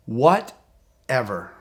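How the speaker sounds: slow, stretched whatever; drawn-out whatever. Shown as a demonstration. Coach shows the word, slow and stretched. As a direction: let it drag out, unbothered. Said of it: "And you say that word".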